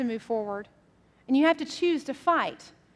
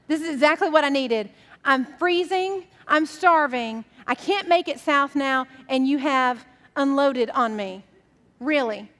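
exasperated complaint; 3 dB louder than usual. Acted. Bird complains after cow unloads.

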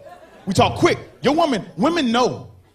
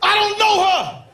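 flustered liar; 11 semitones higher, slower than usual. Retold or imitated. Cheating man insisting to his woman he doesn't know her. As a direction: deny it in a squeaky rush. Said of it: "Be like".

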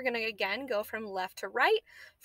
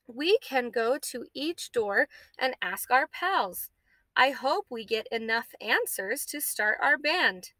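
put-on slow, lively read-aloud for kids; storybook read-aloud voice; reading to children. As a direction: read the story brightly to young pupils.

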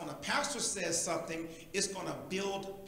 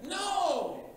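higher, loud no; sharp no; 9 semitones higher, 4 dB louder than usual. Acted. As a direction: cut it off hard. Rejecting the coddling.

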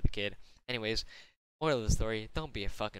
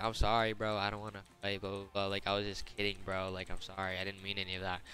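mocking apology; 2 semitones lower, 3 dB quieter than usual. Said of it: "he decides to be a little bitch".

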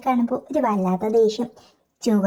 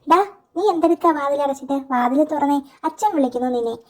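raised voice through a shut door; mother calling out; 4 semitones higher than usual. Retold or imitated. Mother calling her son through the closed door, calling out. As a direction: call him out of the room, higher at first. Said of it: "അമ്മ വിളിച്ചു പറയുന്നു".

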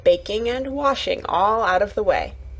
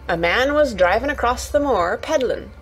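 lightly voiced Yorkshire lass starting a tale; a hint of country storytelling; explaining Yorkshire Martha; 3 semitones higher than usual. Martha explaining the present to Mary, lightly voiced Yorkshire.

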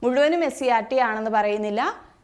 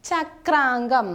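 slow dictation; much slower than usual. Shown as a demonstration. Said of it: "അരയന്നത്തിൻ്റെ പര്യായമാണ്".

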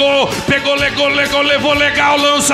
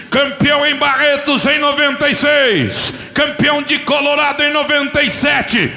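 hyped rodeo announcer. Real, not acted. Rodeo announcer introducing rider.

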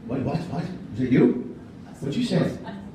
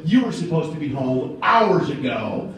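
wife scolding; 5 semitones lower than usual. Retold or imitated. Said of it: "she looks at me and goes".

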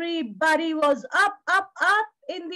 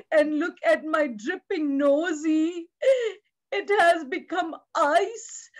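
pleading wolf. Acted. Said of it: "And the wolf said".

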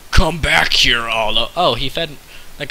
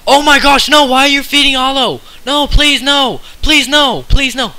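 much higher, loud squeaky panic; hammed-up high-pitched begging; mock panic; 12 semitones higher, 7 dB louder than usual. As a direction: shriek for mercy in a tiny high voice. Panicking as cell gets fed.

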